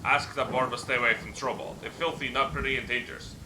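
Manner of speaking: lightly voiced simple-minded troll, pitched a bit up; a hint of a friendly, dim troll boasting; rough troll voice. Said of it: "The troll's voice is rough and gravelly".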